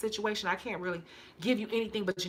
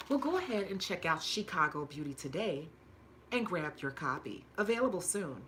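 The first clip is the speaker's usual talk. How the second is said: steady sales pitch spelling out the web address; ad read. Acted. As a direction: read it like a radio ad. Reads own commercial break.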